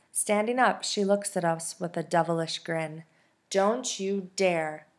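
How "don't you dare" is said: slow, deliberate "I mean it" warning; each word spaced out like a firm teacher; stern warning. Acted. Missus V warning Penny not to run off, slow stern warning. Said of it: "Missus V warns in her "I mean it" voice".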